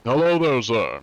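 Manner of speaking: a hint of a prim officer questioning a suspect; lightly voiced stiff official, courteous and firm; polite inspector. Streamer as polite cheat inspector questioning a player, prim.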